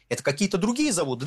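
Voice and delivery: mock-innocent question, the pitch rising a little; mock puzzled question. Host asks radio listeners with feigned innocence, mock puzzled. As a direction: play dumb, as if asking the listeners. Rhetorical self-question about refineries.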